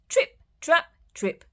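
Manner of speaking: put-on high, squealing baby goat; high little kid goat answering; squeaky little goat. Little goat trotting sound.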